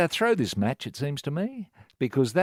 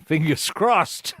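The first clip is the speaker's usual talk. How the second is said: laughing; 5 semitones higher, slower than usual. Real, not acted. Laughs at his own bet.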